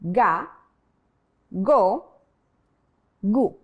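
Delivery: "Ga, go, gu" with a hard g and pure vowels; hard Spanish G. Shown as a demonstration. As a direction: say "Ga", "go", "gu" one at a time. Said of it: "Repeat after me".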